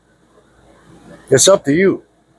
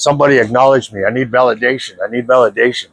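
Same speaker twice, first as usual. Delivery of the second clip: fast, whiny mimic of someone begging for attention; mock needy plea; 4 semitones lower, faster than usual. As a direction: rattle it off like a desperate attention seeker. Mocking needy people who call daily.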